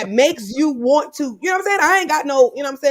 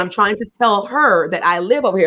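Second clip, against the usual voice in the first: calmly imitating a reasonable man; quoting him in a measured, sensible voice; 5 semitones lower than usual. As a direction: explain it evenly, as if keeping the peace. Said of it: "he's talking so reasonable".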